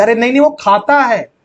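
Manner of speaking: वो pushed out firmly; emphatic insisting. Retold or imitated. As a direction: mildly insist the boy eats it. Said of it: "जोर देके बोल रही". (ज़ोर देकर वो खाता है)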